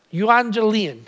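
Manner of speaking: euangelion said carefully as a Greek word; clearly enunciated euangelion; phonetic pronunciation. Shown as a demonstration. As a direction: sound out euangelion for the class. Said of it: "Phonetically, it goes something like this".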